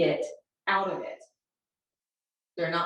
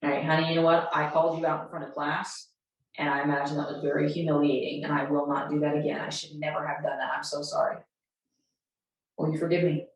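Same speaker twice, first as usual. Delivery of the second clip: low, earnest admission of fault; tender, remorseful teacher demo; sincere apology; 4 semitones lower than usual. Shown as a demonstration. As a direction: apologize gently to a child, pitched down. Demonstrates apologizing to a child.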